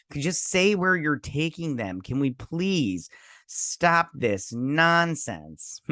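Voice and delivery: mock pleading, slowing down sharply; exasperated plea. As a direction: drag out the final plea in exasperation.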